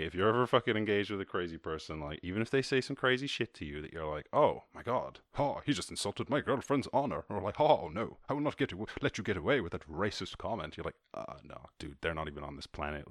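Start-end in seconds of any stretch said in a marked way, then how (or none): 4.3-7.2 raised-pitch mock outrage; hammed-up affront; mock indignation. Mocking an offended person's reaction. 7.6-10.8 mock-righteous protest; mock indignation. Mocking an offended person's reaction. 11.1-13.1 soft, low brush-off; deflated, softer aside; quiet dismissal. Retold or imitated. Voicing the sensible dismissive reply.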